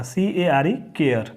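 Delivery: केयर with the ए sounding as ए; teacher sounding out केयर; spelling then saying care. Shown as a demonstration. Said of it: "ए की ध्वनि उच्चारण जो है निकालेगा".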